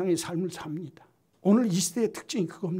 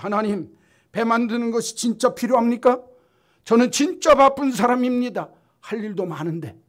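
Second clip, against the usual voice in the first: complaining; 5 semitones higher, 8 dB louder than usual. Retold or imitated. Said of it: "이렇게 원망했다는 겁니다".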